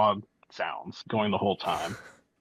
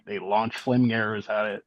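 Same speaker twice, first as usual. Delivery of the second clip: normal talking voice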